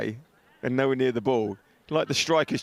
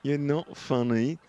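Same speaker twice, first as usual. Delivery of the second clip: mock sighing producer; 3 semitones higher, much slower than usual. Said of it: "all sigh in my ear going".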